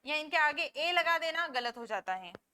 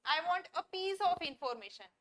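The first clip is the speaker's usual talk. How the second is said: each word spaced out slowly for students; slow model sentence; much slower than usual. Shown as a demonstration. Teacher reading an example sentence for learners, slowly. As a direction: dictate it slowly. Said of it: "ये sentence सही है".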